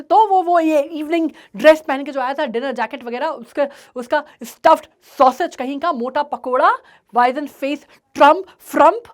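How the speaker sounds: loud, rising into furious name-calling; angry insults. Acted. Father cursing the neighbour, loud angry insults. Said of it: "अब वो गुस्से में है".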